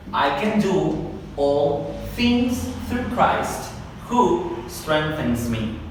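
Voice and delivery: slow, separated phrases of the verse; careful practice pace; slow drill. Shown as a demonstration. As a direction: spell out each phrase slowly. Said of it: "lo voy a hacer un paso un poco más normal".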